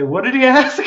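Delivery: high puzzled quoted question; confused guest. Retold or imitated. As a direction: mimic the baffled guest asking.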